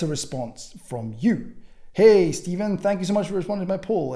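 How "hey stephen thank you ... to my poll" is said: a neat, proper thank-you note read aloud; formal. Shown as a demonstration. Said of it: "if you want to be formal".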